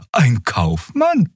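high, slow creature voice; curious Draxül. A narrator's reading. Xea asks who the customer is, curious Draxül voice. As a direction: put on a high, drawn-out creature voice.

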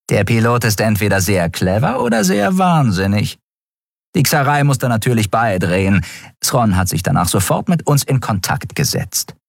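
high-voiced officer briskly reporting to the admiral; urgent, high report to the commanding officer; first officer reporting. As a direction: pitch her voice up as a crisp officer giving a report. Shia comments on the pilot.

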